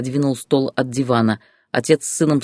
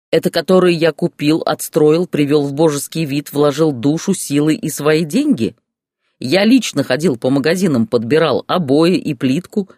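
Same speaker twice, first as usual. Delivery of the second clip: louder furious rant of an angry husband; yelling; 3 dB louder than usual. Acted. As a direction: bellow the grievances at the ex-wife. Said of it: "орал он". (муж орёт на бывшую жену, громко и зло)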